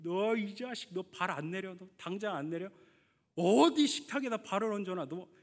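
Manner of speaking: mildly heated retold telling-off; angry scolding. Father telling off his young son at the dinner table, mildly angry scolding. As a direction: scold a child, indignation building on the last question. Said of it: "그래서 막 혼낸 거죠".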